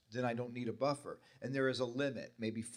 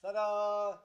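magician's assistant; 10 semitones higher than usual. Pretend. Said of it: "pull a ticket out".

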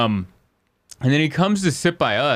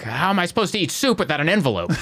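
higher-pitched mock lunatic outburst; crazy yelling; 6 semitones higher, faster than usual. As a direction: act out a comic's crazy non sequitur. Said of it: "he'd yell something crazier".

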